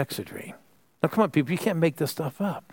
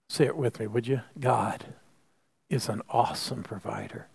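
hushed refrain; 3 semitones lower, 5 dB quieter than usual. Real, not acted. Quiet closing refrain.

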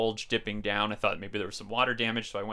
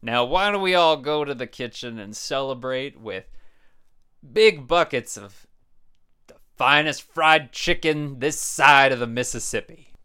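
put-on old prospector; 7 dB louder than usual. Grandpa invites all to chicken.

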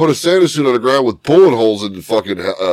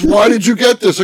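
higher mock-whiny imitation of the wife; 8 semitones higher than usual. Husband retelling his wife's question, higher mocking voice. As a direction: whine it at him like she did. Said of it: "she goes".

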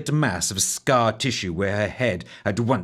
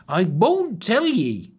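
unhappy; 10 semitones higher, 3 dB louder, slower than usual. A narrator's reading. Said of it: "the wench said unhappily".

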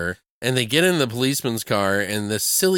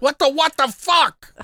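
disbelieving; 4 dB louder than usual. Acted. Mock disbelief at Chuck.

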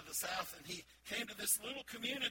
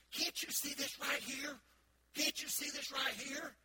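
slow, loud, higher, jabbing at the page; exasperated insisting; 8 semitones higher, 4 dB louder, slower than usual. Retold or imitated. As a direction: hammer each word at him. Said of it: "she says".

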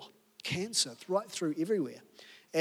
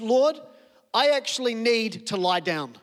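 desperate prayer; 4 semitones higher, 4 dB louder, slower than usual. Retold or imitated. Climactic quoted prayer.

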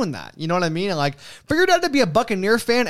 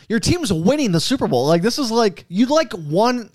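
retold incredulity; 5 semitones higher than usual. Retelling his incredulous plea to fan.

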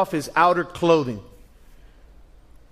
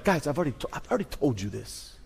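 much softer, lower, tired reminder; weary reminder; 5 semitones lower, 10 dB quieter than usual. Retold or imitated. Jesus reminding the disciples once more, soft and weary. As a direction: sigh it out like a patient father. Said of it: "he gives them that look like".

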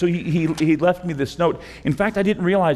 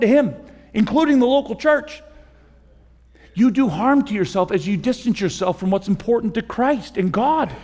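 louder and higher, driving each phrase home; full-force preaching; 8 semitones higher, 3 dB louder than usual. Acted. Pastor urging the congregation toward Christ, preaching at full force. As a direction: preach it like a rising call to the congregation.

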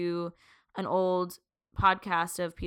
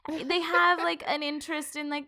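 higher, whiny thirties loner; whiny lonely voice; 3 semitones higher, 4 dB louder than usual. Retold or imitated. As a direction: play a lonely awkward adult. Voicing a lonely thirty-something.

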